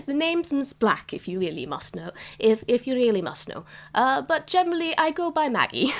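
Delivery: lightly voiced proper granny, a bit haughty; old cat grandma. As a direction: tease them with her name. DM voicing Nan.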